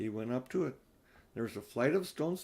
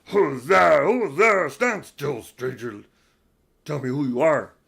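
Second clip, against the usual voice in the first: booming, very loud growled delivery; 13 dB louder than usual. A creature rises and challenges Edmund, a stranger: growling voice. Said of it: "said in a growling voice".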